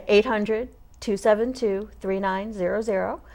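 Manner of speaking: phone number spelled out slowly, digit by digit; slow repeat. Real, not acted. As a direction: read the number out deliberately for someone writing it down. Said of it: "say that again slowly".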